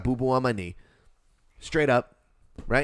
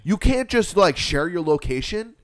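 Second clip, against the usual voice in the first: raised, forceful disbelief; exasperated rant; 6 semitones higher, 4 dB louder than usual. Retold or imitated. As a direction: pile up points, fed up. Acts out scolding the couple.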